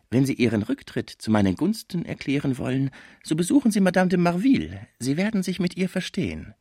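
schrecklicher Fraisier. Acted. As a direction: play the dreadful lawyer, pitched high. (schrecklicher Anwalt, hohe Stimme)

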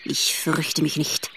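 low, slow rattling insect voice; rasping grasshopper. A narrator's reading. Grasshopper answers the fawn, low and rattling. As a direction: rattle it out like a dry little grasshopper. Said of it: "mit einer rasselnden Stimme".

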